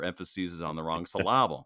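"emphasis" ending in a long -seez, "syllable" as suh-LAH-bul; misplaced word stress. Pretend. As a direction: repeat the joke, stressing the middle of "syllable". Repeats the joke on word stress.

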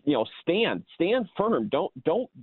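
voicing Paul's frustration with the churches; exasperated Paul. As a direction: urge them, fed up. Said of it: "the exasperation he has".

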